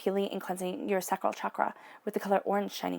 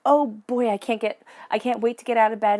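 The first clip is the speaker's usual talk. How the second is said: mock eager excitement; 4 dB louder than usual. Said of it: "waking up each day with a spirit of enthusiasm".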